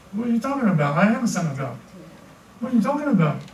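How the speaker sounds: mock disbelief at the tempter; acted indignant retort. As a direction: push back, pitch jumping on the questions. Acts out indignant reply to tempter.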